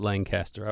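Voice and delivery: Lancaster said as LANG-caster; local pronunciation. Shown as a demonstration. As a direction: sound a G before the C in Lancaster. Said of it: "I like to call it Lancaster".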